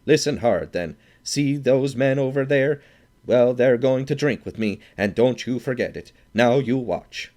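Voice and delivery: loud, high, swaggering; bully announcing a dare; loud boast. A narrator's reading. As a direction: threaten with drunken swagger. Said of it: "cried the Swede".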